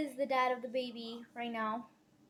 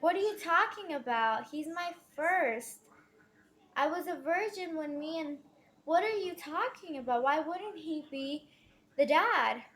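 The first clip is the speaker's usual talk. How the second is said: indignant retort; 4 semitones higher than usual. Retold or imitated. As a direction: protest in offended disbelief, reenacting it. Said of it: "I got so mad".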